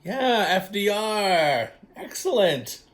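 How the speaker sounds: high, loud and drawn-out cheer; excited cheer. Real, not acted. Host cheering listeners for the right answer, excited.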